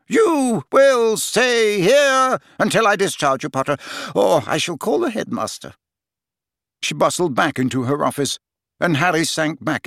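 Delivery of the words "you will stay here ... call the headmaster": stern threatening matron. A narrator's reading. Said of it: "in a threatening manner".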